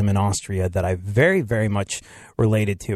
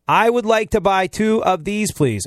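higher, insistent tourist request; pitched-up second attempt, falling on please; insistent repeat; 8 semitones higher than usual. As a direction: repeat it pointedly to get understood. Repeats order after not being understood.

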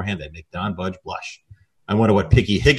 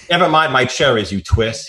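gruff cop retort; 4 semitones higher, 5 dB louder than usual. Acted. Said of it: "he said".

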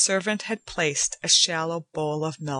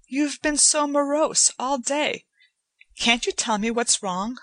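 put-on higher young woman, gently pressing; Joanna, worried; 7 semitones higher than usual. A narrator's reading. Joanna presses Etienne about his gloom, in a higher pleading voice. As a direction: coax the truth out of him.

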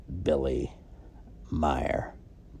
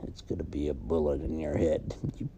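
menacing threat; 2 semitones higher than usual. Acted. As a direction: promise revenge under the breath. Threat to the host.

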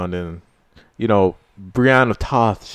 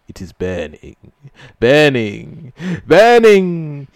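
dramatic cartoon love speech; slower than usual. Friend reciting a Tom and Jerry love speech to the group, slow hammed-up swoon. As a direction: ham up the lovesick cartoon confession. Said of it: "that's from Tom and Jerry".

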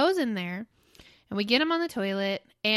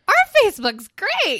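mock proud; 9 semitones higher, 7 dB louder than usual. Mock reply to podcasters doubting Facebook.

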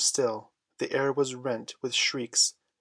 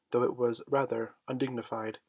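plain reading voice

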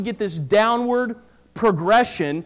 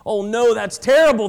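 louder alarmed "Oh no"; alarmed cry; 6 dB louder than usual. Acted. Patient reacting to the doctor's bad news, loud alarm. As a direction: blurt it out in shock. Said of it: "the man said".

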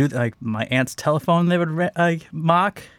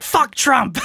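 parrot curse; 10 semitones higher than usual. Pretend. Swearing bird in sanctuary.

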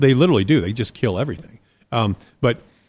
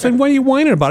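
put-on loud, high Chicago-accented retort; imitated Chicago accent; 13 semitones higher, 5 dB louder, much faster than usual. Chicago neighbor dismisses a bitten man's complaint, scornful imitated accent. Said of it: "the hardest ... Chicago accent".

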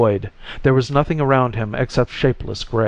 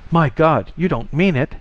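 shocked; 5 semitones higher than usual. A narrator's reading. Shocked exclamation at dying news.

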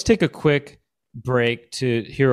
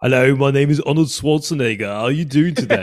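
lightly voiced action star with English accent; hint of mock-English strongman; Arnold Schwarzenegger; 2 semitones higher than usual. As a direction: try an English-Austrian accent blend. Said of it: "Schwarzenegger with an English accent".

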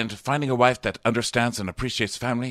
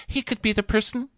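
put-on very high, girlish swooning; hammed-up lovestruck contestant; mock dreamy gushing. Podcaster mimicking Claire the contestant, high and gushing. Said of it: "and Claire's like".

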